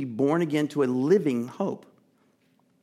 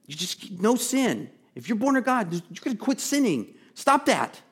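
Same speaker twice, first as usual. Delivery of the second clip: higher, scolding mock finger wag; 6 semitones higher than usual. Preacher mimicking a scolding apostle, mock stern. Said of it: "It feels like a finger wag".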